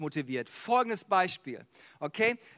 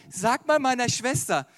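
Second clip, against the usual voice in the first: mildly pointed, louder complaint; mock passive-aggressive demand; 3 semitones higher, 4 dB louder than usual. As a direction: complain sideways with a slight edge. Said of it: "ist so passiv-aggressiv".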